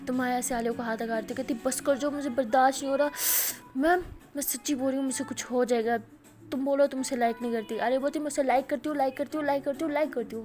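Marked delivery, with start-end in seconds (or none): 1.6-7.8 angry demand. Retold or imitated. Quarrel continues, jealous friend demands. 8.2-10.4 shouting. Retold or imitated. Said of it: "اونچے اونچے چلا رہی ہوتی ہے".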